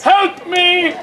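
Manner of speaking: drawn-out plea for help; theatrical cry. Acted. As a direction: cry it out in hammed-up desperation. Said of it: "he cries".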